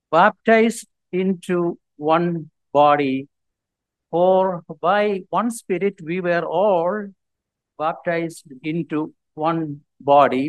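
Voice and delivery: slow, measured Bible reading; scripture reading. Acted. Preacher reads First Corinthians to the congregation, slow scripture reading. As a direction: read the verse out deliberately, word by word.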